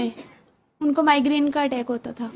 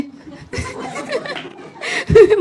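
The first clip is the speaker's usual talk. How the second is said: a long high laugh, falling away; real laugh trailing down; 9 semitones higher than usual. Real, not acted. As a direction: laugh at your own turnaround. Laughing at her own flip-flop.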